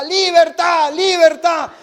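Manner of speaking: high, very loud parrot cry; screaming parrot. Acted. Parrot banging cup on the bars, imitated high shout. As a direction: squawk it desperately like a protester. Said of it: "comienza a gritar el loro".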